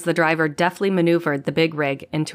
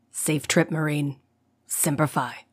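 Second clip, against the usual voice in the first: good-natured; 4 dB quieter than usual. Acted. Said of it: "he said good-naturedly".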